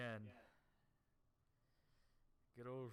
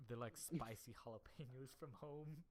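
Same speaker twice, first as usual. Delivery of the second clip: loud, higher imitation of a blurted confession; retold yelling out; 4 semitones higher, 11 dB louder than usual. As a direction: yell it out, laughter breaking in. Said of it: "Rick just yelled out".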